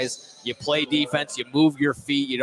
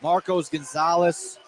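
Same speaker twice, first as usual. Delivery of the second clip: live basketball play-by-play, energetic; play-by-play call; 3 dB louder than usual. Acted. Commentator calling a double overtime free throw.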